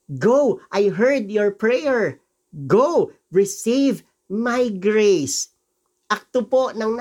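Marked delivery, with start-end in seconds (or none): 0.1-5.6 slow, deliberate and kind; Jesus blessing a pleading father, slow and gentle. Acted. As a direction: grant the healing slowly and tenderly. Voices Jesus granting healing.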